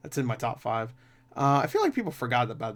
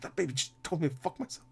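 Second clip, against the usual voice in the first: Seth Rogen; 3 semitones higher, 7 dB quieter than usual. Retold or imitated. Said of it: "one of my favorite Seth Rogen scenes".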